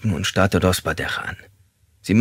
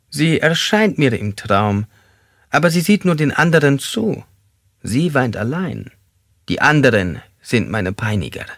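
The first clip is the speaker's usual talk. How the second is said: tormented suspect; 6 semitones higher than usual. Acted.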